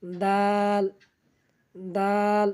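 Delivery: দাল held long, tongue on tooth roots; dental dal. Shown as a demonstration. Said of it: "দুই দাঁতের গোড়ার সঙ্গে লাগাইয়া". (দাঁতের গোড়ায় জিভ লাগিয়ে দাল)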